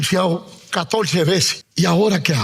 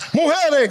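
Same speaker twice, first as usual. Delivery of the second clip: Mujeres called out high; more emphasis; 7 semitones higher than usual. Shown as a demonstration. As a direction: punch Mujeres for the women to echo. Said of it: "pero con más énfasis".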